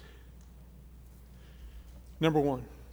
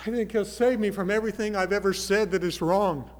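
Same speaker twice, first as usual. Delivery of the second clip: awed listener; 4 semitones higher, 7 dB louder than usual. Acted. Crowd voiced hearing Jesus preach.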